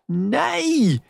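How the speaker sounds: put-on high, loud child's scream. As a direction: shriek the no. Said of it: "skreik Emma".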